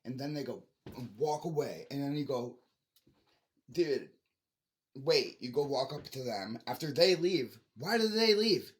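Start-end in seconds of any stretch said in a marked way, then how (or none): 3.7-5.4 loud call after someone walking off; loud mock call to stop. Calling after people leaving. 7.8-8.7 high, loud exasperated question; real exasperation, pitched up and loud; exasperated outburst. Real, not acted.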